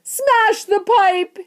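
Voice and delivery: very high, drawn-out shriek; loud, slow, high-pitched command; yell. A narrator's reading. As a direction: yell a frantic order. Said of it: "yelled Missus Gloop".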